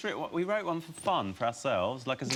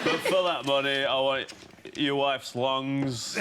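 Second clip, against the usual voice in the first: bad Scottish accent. Investor naming terms for the money, bad Scottish accent. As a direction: drag out a hopeless Scottish impression. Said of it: "It's the worst Scottish accent in the history of accents".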